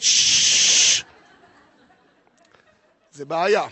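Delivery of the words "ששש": loud, drawn-out "shhh"; long hiss. Acted. End of the snake story, long hissed shush. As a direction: hold a long, loud hush.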